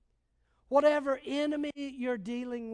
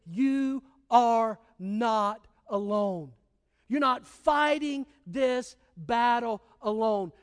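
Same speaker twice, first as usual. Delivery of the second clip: voice of God; 2 semitones lower, slower than usual. Acted. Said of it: "as he says to me".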